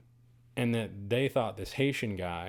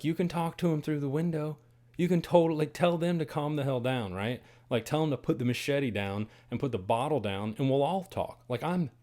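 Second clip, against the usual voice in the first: frantic pleading; 5 semitones higher than usual. Retold or imitated. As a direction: talk him out of it, high-pitched and anxious. Pleading with guide during attack.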